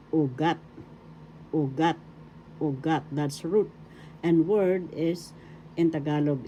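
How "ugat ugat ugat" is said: ugat as u-GAT, weight on GAT; stress on second syllable. Shown as a demonstration. Teacher drilling root in Tagalog, ugat stressed on GAT. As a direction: land firmly on the end of ugat. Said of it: "in the second syllable".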